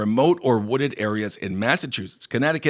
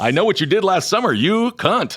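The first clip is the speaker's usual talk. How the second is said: louder, fast aggressive Boston line; 5 semitones higher, 4 dB louder than usual. Retold or imitated. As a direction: spit it out aggressively. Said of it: "It's a little aggressive".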